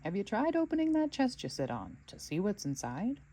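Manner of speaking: lightly voiced gnome, curious; a hint of a prying little gnome. Gnome nudging the old dog about the chest, lightly voiced.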